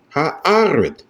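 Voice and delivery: Ha'aret with the stress on the middle a; Ha'aret, swelling high on the a before ret; marked word accent. Shown as a demonstration. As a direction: lift and stretch the second syllable of Ha'aret.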